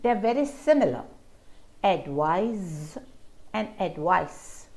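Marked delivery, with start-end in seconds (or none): 1.8-3.0 "advise" ending in a voiced z; final z sound. Shown as a demonstration. Teacher repeating advise to show the final z. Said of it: "The difference is in the final consonant sound". 3.8-4.7 "advice" ending in an unvoiced s, said slowly; final s sound. Shown as a demonstration. Teacher repeating advice to show the final s. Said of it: "The difference is in the final consonant sound".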